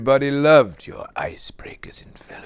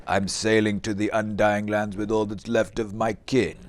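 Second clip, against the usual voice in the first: lightly voiced solemn elf; a hint of the lofty elf; mock elf voice; 6 semitones lower than usual. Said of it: "You've never been rejected with".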